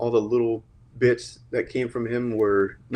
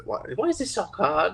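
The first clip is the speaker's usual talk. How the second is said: squeaky higher elf voice, whining; a pitiful house-elf whine, lightly voiced; Dobby voice; 7 semitones higher, 3 dB quieter than usual. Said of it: "the Dobby line was him".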